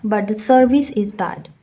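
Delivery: very slow, with "but" said short and its t dropped; slow demo reading. Shown as a demonstration. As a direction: model the phrase slowly for students. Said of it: "टी silent हो जाता है".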